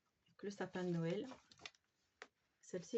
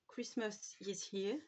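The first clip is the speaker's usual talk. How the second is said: French-accented English; 4 dB quieter, much slower than usual. Real, not acted. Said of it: "Excusez-moi pour mon anglais".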